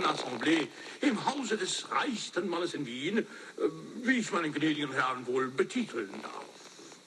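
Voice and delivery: German lines in a Prussian accent. Shown as a demonstration. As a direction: put on a Prussian accent for the audition. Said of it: "with a German Prussian accent".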